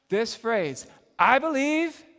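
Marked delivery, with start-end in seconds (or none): 1.2-2.1 sudden loud high cry; desperate shout of belief; shouted cry of faith. Retold or imitated. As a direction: cry it out at the end of your tether. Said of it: "I picture him kinda shouting it".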